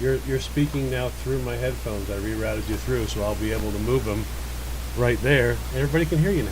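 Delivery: thin, tinny AM radio sound. Real, not acted. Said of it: "you do sound like an A M radio".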